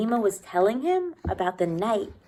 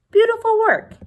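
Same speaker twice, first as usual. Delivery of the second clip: higher and louder, choked with feeling; voice thick with emotion; 12 dB louder than usual. Acted. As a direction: let the praise catch in the throat. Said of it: "his voice thick".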